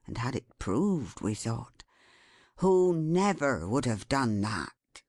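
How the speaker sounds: understated, sorrowful man's voice; the carrier, reproachful. Acted.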